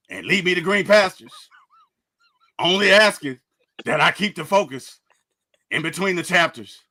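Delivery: lightly growled rapper-style prayer, spaced pauses; a mild take on a rapper's rasping recital, line by line. Retold or imitated. Recites a rapper's prayer for co-hosts who begged for the growl, lightly growled. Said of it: "could we get the growl one more time".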